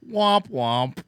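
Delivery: womp womp. Pretend. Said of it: "it just goes".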